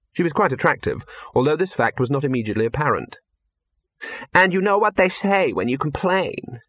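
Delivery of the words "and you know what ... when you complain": high-pitched indignant question; demanding. A narrator's reading. Actress vents to a convenient pair of ears, demanding. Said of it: "she demanded".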